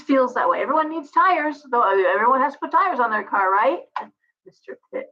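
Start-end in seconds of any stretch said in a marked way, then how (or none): 4.4-5.1 soft unvoiced Mister Pitt; whispered. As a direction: breathe it under your breath. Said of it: "that was it from Seinfeld".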